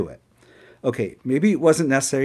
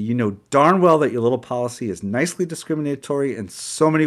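angry rant; 4 semitones higher, 4 dB louder than usual. Retold or imitated. Narrator's escalating quarrel with manager.

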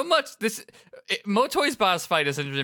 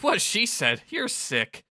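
put-on much higher, disgusted young voice; Fret's voice; 8 semitones higher, much slower than usual. Fret agrees and calls Motoi sick, high disgusted voice. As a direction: spit it out in disgust. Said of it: "Fred says".

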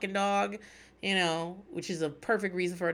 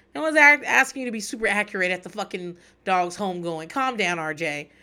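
exasperated scolding; 6 dB louder than usual. Real, not acted. Scolding R J playfully.

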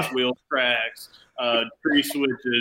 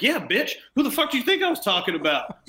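high-pitched gloating retort, pitched way up; mock gloating; 9 semitones higher than usual. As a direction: gloat at them in a raised, cocky voice. Gloating at the managers, retold.

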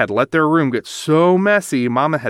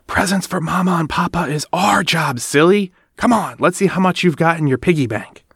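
hushed brother; 4 semitones higher than usual. Acted. Brother whispering to Sister.

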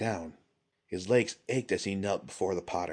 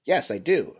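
eager, higher and louder; smiling; 7 semitones higher, 6 dB louder than usual. A narrator's reading. Prince accepts help crossing the ravine, smiling. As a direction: accept gladly, with a smile. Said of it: "Sotori smiled again".

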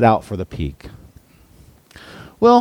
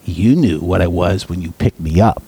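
low, flat serpent reply; a lightly voiced indifferent serpent; cold snake; 4 semitones lower than usual. A narrator's reading. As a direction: say it coldly, without remorse. Snake answers after striking.

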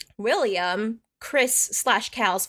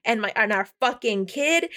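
mock outrage, slightly raised pitch; losing it; 3 semitones higher than usual. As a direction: act out an indignant wife losing it. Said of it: "she's, like, losing her tits".

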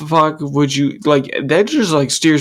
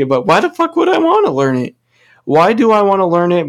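higher, louder exasperated repeat; 6 semitones higher, 3 dB louder than usual. Real, not acted. Ranting about Spanish class, repeating it louder in exasperation. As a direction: push the question harder.

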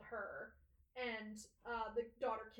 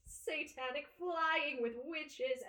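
slow, louder grand tempting offer; seductive devil voice; 3 semitones higher, 5 dB louder, slower than usual. Retold or imitated. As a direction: sell the dark promise slowly. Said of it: "he has this very seductive voice".

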